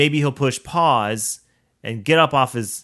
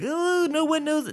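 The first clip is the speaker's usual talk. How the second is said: mock sneaky twenties self. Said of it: "it was like".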